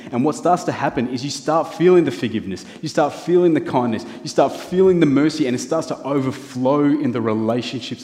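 growing fervour through the list; building preaching. Real, not acted. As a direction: preach it up, each "feeling" stronger. Sermon building to climax.

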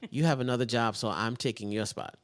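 loud, mock-firm dismissal; joking takeover announcement; pretend ultimatum. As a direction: playfully lay down the law to a rival. Acts out ousting the rival friend.

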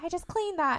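high-pitched imitation of an annoyed mom; retold scolding. Mom fighting with daughter over the stove, exasperated. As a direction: complain like a mock-exasperated mother.

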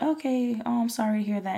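mock polite sympathy, just doing the job; perfunctory sympathy. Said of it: "I'm grouchy that day".

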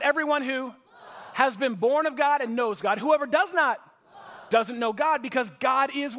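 reading scripture at full preaching force, loud and high; loud scripture call-out. Acted. Pastor calling the verse out loud to the congregation, preaching at full force. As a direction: belt out the verse so the room answers back.

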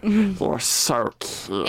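cooing witch. Acted. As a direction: draw out the compliment, creepy and lilting.

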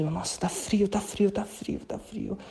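breathy whispered moaning about the cold; in ice cold water. Shown as a demonstration. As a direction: whimper as if freezing under the shower. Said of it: "continua falando pra você, não perde".

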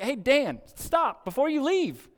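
high, loud call across the room. Retold or imitated. Pastor calling the elder Dan back, loud high call. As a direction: stop him before he goes.

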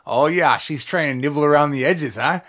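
a light imitation of an old Vermont mountain man; half-hearted impression of a Vermont friend; Vermont mountain accent. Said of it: "I don't know what kind of accent that was".

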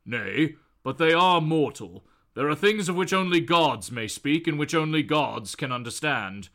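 a hint of an archaic immortal; lightly voiced god. God insisting on private talk, lightly voiced solemn tone. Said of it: "And he replies that".

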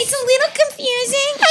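very high squeaky imitation; baby voice. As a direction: put on a tiny childish voice. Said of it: "she talks like a baby".

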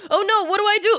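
high, whiny fake sob; mock crying. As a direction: whimper like a sad meme. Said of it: "that TikTok sound that's like".

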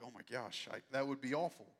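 a hammed-up cringing gasp of dismay; mock squirming dread. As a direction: play the uncomfortable listener, half-joking. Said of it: "like, shriveling up".

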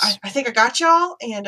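put-on hesitant Southern-accented speech. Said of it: "go to a Southern accent immediately".

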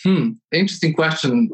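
musing hum before answering; thinking hmm. Real, not acted. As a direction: mull it over aloud. Pondering the interviewer's question.

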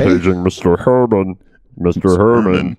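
slow, far-off paging announcer; calmly page a guest over the intercom; soft hotel lobby announcement. Pretend. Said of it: "you really went into that guy".

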